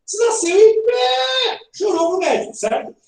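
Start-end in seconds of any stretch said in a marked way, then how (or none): 0.6-1.6 high, drawn-out mock wail; playful newborn bawl; imitated baby cry.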